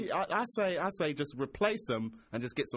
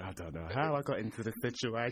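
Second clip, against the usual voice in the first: mock girl voice; 7 semitones lower, 4 dB quieter than usual. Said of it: "She was like".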